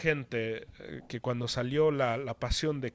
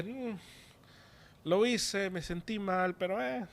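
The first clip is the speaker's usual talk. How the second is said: higher-pitched, offhand mimicry of excuses; casual mock shrug in the voice; mock indifference; 5 semitones higher than usual. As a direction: lightly act out shrugging it off. Voices a Christian shrugging off sin.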